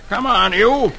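high, scared urging; scared hurry. A narrator's reading. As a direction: hurry the child away in a mild panic. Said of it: "so scared he jumps up and grabs".

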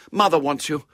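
grown-up sister voice; older sister. A narrator's reading. Sister summons her brother.

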